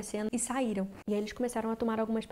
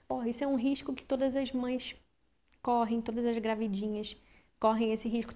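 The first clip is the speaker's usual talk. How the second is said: imitating the doctor. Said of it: "sabe aquele médico americano".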